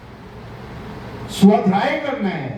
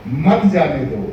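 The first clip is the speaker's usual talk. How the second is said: मत जाने दो as one lower, falling phrase; मत joined to जाने दो; 6 semitones lower, slower than usual. Shown as a demonstration. Preacher explaining the comma, मत grouped with जाने दो. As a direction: stress मत, then fall away through जाने दो. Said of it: "उसके बाद में कोमा लगा दिया".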